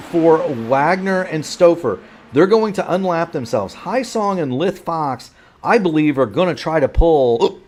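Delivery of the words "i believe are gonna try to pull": hiccuping mid-sentence; hiccups. Real, not acted. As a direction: talk through the hiccups. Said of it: "excuse the hiccups".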